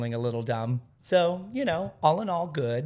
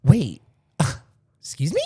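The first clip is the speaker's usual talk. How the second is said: mock shock; 3 semitones higher, 8 dB louder than usual. Mock shock at blonde remark.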